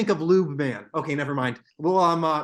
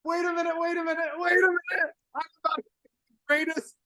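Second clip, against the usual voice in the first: high shrieking disbelief; screaming with excitement; ecstatic; 12 semitones higher, 4 dB louder than usual. Real, not acted. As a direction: squeal over a big surprise. Sees something amazing live.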